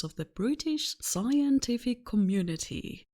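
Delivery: put-on old-time newsreel announcer; vintage news reporter voice. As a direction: read it like an old radio newsreader. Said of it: "I'm gonna use my best vintage news reporter voice".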